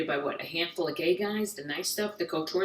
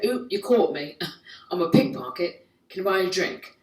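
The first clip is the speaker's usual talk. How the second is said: put-on London pickpocket accent; 4 dB louder than usual. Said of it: "I'm in London, I'm in Piccadilly Circus".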